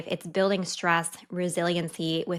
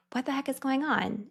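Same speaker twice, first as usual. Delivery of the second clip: exasperated surprise; 7 semitones higher, 4 dB quieter than usual. Retold or imitated. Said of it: "I'm like".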